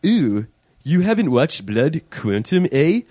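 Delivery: exaggerated Canadian accent. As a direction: put on a broad Canadian accent. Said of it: "Your Canadian accent sounds, sounds like an asshole".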